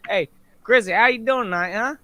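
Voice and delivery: a folksy country-accent hello, only slightly put on; country accent demo. Shown as a demonstration. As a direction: lean lightly into his old country accent. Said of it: "I can do the accent".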